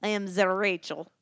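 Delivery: put-on lightly Russian-accented introduction; playful mock Russian accent. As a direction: introduce yourself with a hint of Russian. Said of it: "She's still going on her Russian thing".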